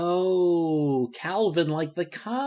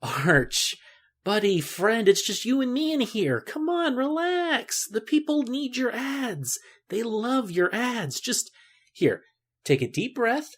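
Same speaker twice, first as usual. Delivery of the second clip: coaxing buddy; 4 semitones higher, slower than usual. Acted. Coaxing a nervous ad voice.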